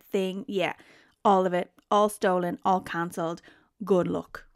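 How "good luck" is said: breathy sarcastic whisper; mock whispered farewell; whispered good luck. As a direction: whisper it like a parting shot. Sarcastic send-off to Jono.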